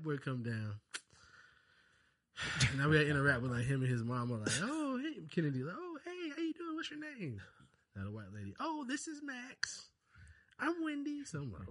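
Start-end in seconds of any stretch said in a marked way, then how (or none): 4.6-7.4 high, sugary fake politeness; mock polite voice. Dad mimicking his own polite park small talk, high and sweet. 8.6-11.2 high, slow, sweet mom voice; imitating a white mom. Dad imitating the other mom introducing herself, high and slow.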